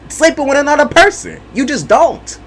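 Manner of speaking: emphatic dismissal. Real, not acted. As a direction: shut the question down firmly. Dismissive final point.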